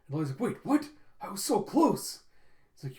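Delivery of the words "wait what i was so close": high, louder mock outcry; acted dismay, drawn out on the last words; dismayed disbelief. Lloyd hears the meeting is slipping away, dismayed.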